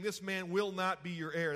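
firm stress through "will not be your heir"; "This man will not be your heir", said emphatically; emphatic pronouncement. Retold or imitated. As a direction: declare "will not" as a settled verdict. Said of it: "That's very emphatic".

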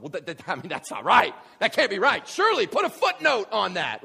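stammer, then a high, loud protest; imitated false teacher, flustered and rising in pitch; mock outrage. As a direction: play a scandalized objector, building to a shout. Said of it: "they would have gone".

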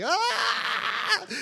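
high wailing "Ah!"; a hammed-up falsetto wail; mock cry. Moses on the floor, a mock high wail.

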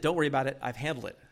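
unruffled, easy reassurance; calm reassurance. Retold or imitated. Cousin reassures the worried groom, calm. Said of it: "So he very calmly, he said".

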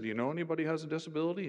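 a touch of teasing insistence; pressing again. Retold or imitated. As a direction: repeat the question with a nudge.

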